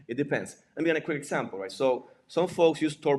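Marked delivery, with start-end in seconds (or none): 0.0-0.6 real chuckle through the words; amused chuckle. Real, not acted. Speaker repeats stock answer to audience question, amused chuckling. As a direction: say it while chuckling at yourself.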